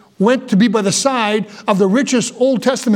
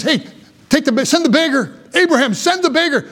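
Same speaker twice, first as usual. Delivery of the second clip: higher-pitched imitation of a desperate plea; rich man crying out; 4 semitones higher than usual. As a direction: call out to Abraham, lightly acted. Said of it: "in hell, he's crying out".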